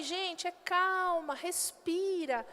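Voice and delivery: soft, slow reassuring; softly, slowly telling people to breathe; calming. Retold or imitated. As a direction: talk a crowd down gently. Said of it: "eu falei".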